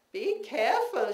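high, loud motherly warning; mother's warning. Retold or imitated. Mother warning her child leaving the apartment, high. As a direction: warn like a worried mother. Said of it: "she said every time".

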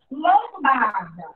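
Lombarda said slowly; slow word reading. Shown as a demonstration. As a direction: read Lombarda slowly for the class. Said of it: "Próxima palavra". (Lombarda lida devagar)

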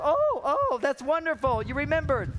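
mock delighted wife. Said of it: "she goes".

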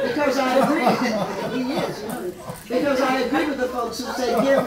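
words pushed out through real laughter; laughing while talking. Real, not acted. Laughing as she tries to finish the line. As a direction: try to talk but keep laughing.

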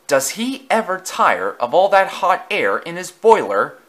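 a young engine's mocking aside to a friend; wry remark. A narrator's reading. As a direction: tease him behind his back. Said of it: "Thomas remarked to Edward".

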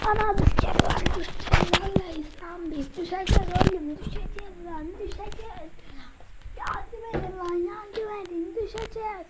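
high panicked mock cries; screaming while falling. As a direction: panic as the plane drops.

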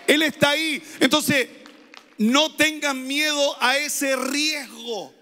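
fervent pulpit proclamation; preaching at full force. Acted. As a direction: drive it home to the congregation.

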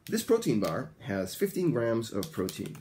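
carefully enunciated repeat for learners; model sentence. Shown as a demonstration. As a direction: articulate every word so students can copy. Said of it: "One more time".

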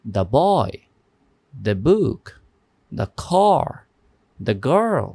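"the" said as da before each consonant word; "the" as thuh. Shown as a demonstration. Teacher repeating examples to students, "the" said as thuh. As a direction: say "the" as thuh before boy, book, car, girl. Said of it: "আর এখানে হবে".

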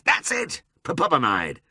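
high-pitched delighted lord with a laugh; jubilant, laughing praise; intensely gratified. A narrator's reading. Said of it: "intensely gratified".

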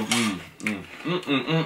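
humming while chewing; closed lips savoring food; mouth full of cereal. Real, not acted. Seen 3: Blue-shirt man spoons cereal in, then hums with closed, moving lips.

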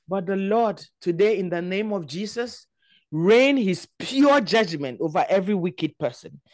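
solemn, emphatic prayer of judgment; earnest pulpit call to repent; fervent preaching. Real, not acted. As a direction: preach it with weight on each phrase. Prays judgment, calls to repent.

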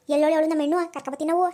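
loud, fast furious threat; mother-in-law yelling at son-in-law, fast and loud; angry shout. Acted.

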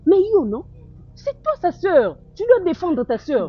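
indignant scolding. Acted. Friend scolds Lisa about her sister.

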